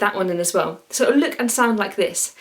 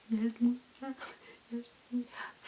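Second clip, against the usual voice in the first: very soft, very quiet slow-motion style voice; 3 dB quieter than usual. Like a playful crowd answering a leader in a call-and-response game, everyone stretching their words as if time itself had slowed to a crawl. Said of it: "Have you got your whispering voice?".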